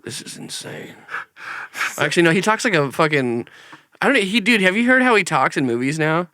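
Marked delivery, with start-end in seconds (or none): 0.0-0.9 awed whisper. Retold or imitated. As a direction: whisper "Oh my God, this is insane" breathless with awe. Seagal reacting, retold.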